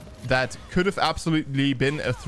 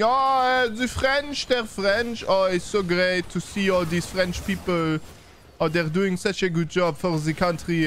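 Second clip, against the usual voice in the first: put-on fawning fan voice, pitched up; mock gushing; 6 semitones higher than usual. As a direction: gush in exaggerated fake delight. Mocking fans gushing over French winners.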